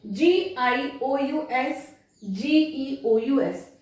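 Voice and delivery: जीआईओयूएस spelled letter by letter, very slowly; spelling out slowly. Shown as a demonstration. Teacher slowly spelling the letter groups for students. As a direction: spell it out deliberately. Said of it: "उसको जस पढ़ा जाएगा".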